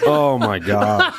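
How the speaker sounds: wincing at the sourness, laughing; eating sour candy. Real, not acted. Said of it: "I feel that kicking in now".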